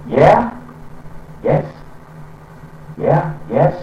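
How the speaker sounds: Yeah and yes lifted high and bright at the end; rising ending. Retold or imitated. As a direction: imitate the upbeat Hawaiian lift on yes. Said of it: "at the end of the sentence they say".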